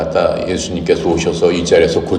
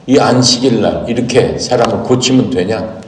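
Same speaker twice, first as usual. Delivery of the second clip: scolding; 4 semitones higher, 3 dB louder than usual. Retold or imitated. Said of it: "이렇게 하면서 막 꾸짖는 겁니다".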